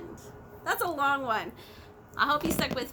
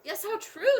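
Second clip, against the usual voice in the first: big kangaroo agreeing; 3 semitones higher, 5 dB louder, much slower than usual. Acted. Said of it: "said the big kangaroo".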